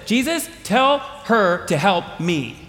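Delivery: slow, deliberate demand with a put-on voice; pointed slow command. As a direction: lay out the order word by word. Martha's command, replayed.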